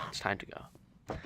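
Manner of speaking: slow unvoiced hush; ominous whisper. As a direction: breathe it ominously. Ominous narrator line.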